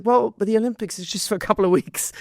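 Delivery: imitating her younger self arguing with mum; reasoning past self. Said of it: "But then I was like".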